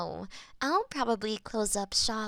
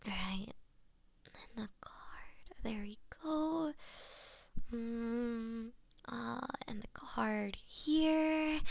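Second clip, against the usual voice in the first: murmuring to herself; 6 dB quieter, slower than usual. Real, not acted. Florist murmurs while preparing bouquet.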